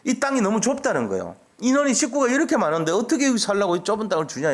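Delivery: imitated grumbling, pitched high; complaining. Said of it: "뭐라고 불평하냐면은".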